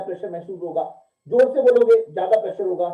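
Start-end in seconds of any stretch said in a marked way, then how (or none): 1.3-2.9 loud speech example. Shown as a demonstration. Example of speaking loudly.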